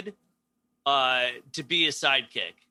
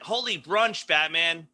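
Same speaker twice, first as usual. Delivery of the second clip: Robin exclaiming. Retold or imitated. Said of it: "how he reacted to everything".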